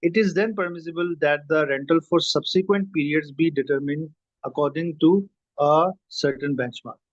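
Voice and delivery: slow, measured reading of a formal text; slow dictation reading. Acted. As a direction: read each word out slowly, as if for dictation. Reads the English text aloud. (धीमे-धीमे किताब पढ़ना)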